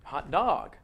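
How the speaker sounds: "hot" then a stronger "dog"; two words, hot DOG; stress on DOG. Shown as a demonstration. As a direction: give dog its own full stress. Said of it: "It's hot".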